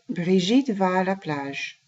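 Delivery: the same sentence at everyday speed; flowing model sentence; natural pace. Shown as a demonstration. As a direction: run it together as a native would. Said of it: "Let's repeat that a little bit faster".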